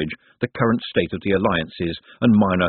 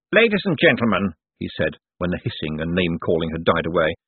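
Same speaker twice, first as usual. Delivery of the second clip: raised, announcing voice to a gathering; public address. A narrator's reading. Cosmo opens the family meeting, public address. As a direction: call the room to order politely.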